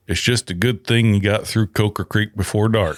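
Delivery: retold Southern local repeating a warning; lightly put-on Southern accent; thick Southern accent. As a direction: imitate a Southern station attendant. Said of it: "got this real thick Southern accent".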